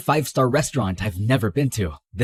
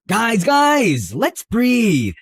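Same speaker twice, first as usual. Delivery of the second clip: higher, raised call for calm; urgent peacemaking; 6 semitones higher, much slower than usual. Acted. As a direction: cut into the quarrel to settle it. Interrupting a mother-daughter argument.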